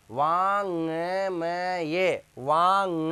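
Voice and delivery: वांग stretched very slowly with a nasal ng; drawn-out vaang. Shown as a demonstration. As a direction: draw out वांग, ending in the nose. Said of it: "यही तो बोलेंगे ना". (वांग को खींचकर नाक से)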